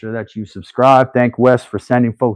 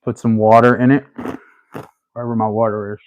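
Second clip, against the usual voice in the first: talking while crunching ice; words round a mouthful of ice; faster than usual. Real, not acted. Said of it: "Sorry, I'm crunching ice".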